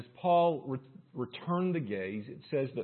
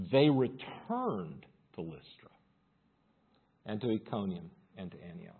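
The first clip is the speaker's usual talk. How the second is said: measured Bible reading; scripture reading. Acted. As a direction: read the account out to a congregation. Continues reading scripture aloud.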